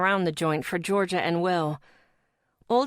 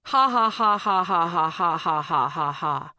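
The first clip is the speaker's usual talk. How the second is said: slow mock laughter; 2 semitones lower than usual. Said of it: "cracking up".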